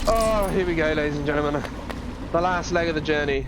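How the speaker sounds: announcer voice. Pretend. Announcing final level to viewers.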